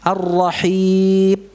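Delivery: slow Ar-Rahim with the final m cut off; clipped mim. Shown as a demonstration. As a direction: end Ar-Rahim sharply, m almost b. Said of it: "Seperti ba jadinya".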